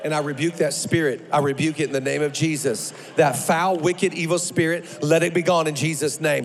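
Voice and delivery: low, forceful command in prayer; forceful rebuke. Real, not acted. Preacher casting out a spirit before the church, forceful rebuke. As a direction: cast it out with low, driving authority.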